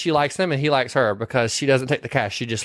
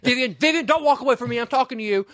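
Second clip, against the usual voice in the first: mock Edward; 11 semitones higher, faster than usual. Edward quoted in retold movie.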